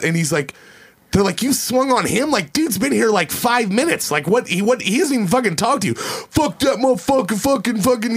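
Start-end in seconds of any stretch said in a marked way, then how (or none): 1.4-8.1 incredulous outrage. Retold or imitated. Friends' outraged reaction retold.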